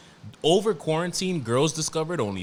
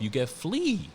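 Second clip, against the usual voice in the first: New York flavor; 4 semitones higher, slower than usual. Shown as a demonstration. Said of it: "that's the New York in me".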